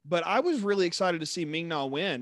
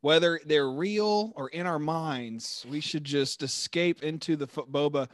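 slow, dreamy put-on ASMR voice; mock ASMR delivery, drawn out. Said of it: "I'm trying to put on an A S M R type voice".

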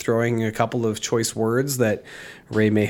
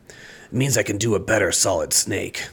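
lightly voiced Solid Snake, a bit lower; 3 semitones lower than usual. Host showing off his head-cold voice, rough Solid Snake impression. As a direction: attempt a half-hearted Solid Snake growl. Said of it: "that was not very good".

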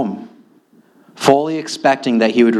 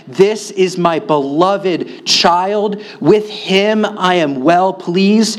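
slow, solemn divine proclamation; voice from heaven; 6 semitones higher, slower than usual. Acted. God speaking at the baptism, slow and solemn. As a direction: announce it slowly and gravely. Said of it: "the voice came down from heaven".

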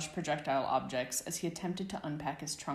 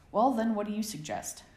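sharp, louder and higher demand; 6 semitones higher, 6 dB louder than usual. A narrator's reading. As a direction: snap the question at him. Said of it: "James demanded".

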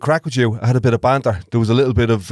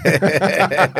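imitating a Traveller accent; 6 semitones higher than usual. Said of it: "is that a traveller doing a ... traveller accent?".

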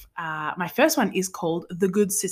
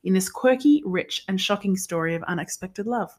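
measured, scripted synopsis reading; book blurb read-aloud. Real, not acted. Host reading a novel's synopsis to her sister, read-aloud.

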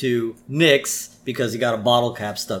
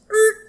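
tire screech; 6 dB louder than usual. Retold or imitated. Imitates the car screeching to stop.

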